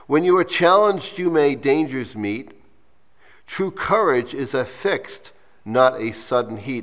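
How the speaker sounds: measured verse, lifted at the start; deliberate recital with pauses; slow reading. Real, not acted. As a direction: read the poem slowly in separate phrases. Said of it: "read it to you slowly".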